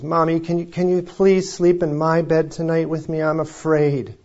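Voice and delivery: a hint of a frightened boy begging mom; scared little boy.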